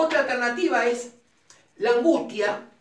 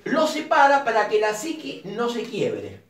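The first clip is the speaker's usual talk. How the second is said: read carefully. Shown as a demonstration. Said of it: "te lo voy a leer bien".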